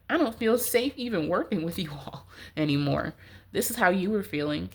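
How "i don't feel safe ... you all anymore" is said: whispered, half laughing; uneasy whisper. Retold or imitated. Client whispers her unease about unsafe coworkers. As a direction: breathe it like a secret worry. Client's inner fear, voiced.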